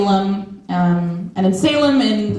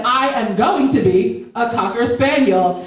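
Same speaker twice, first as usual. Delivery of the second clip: put-on emphatic child. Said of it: "she was very emphatic".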